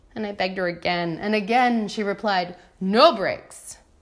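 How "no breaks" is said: stress on no, with softer breaks. Retelling a woman's repeated refusal of a request, stressing no, softer on breaks. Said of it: "She emphasized the word no and ended it with a softer "breaks,"".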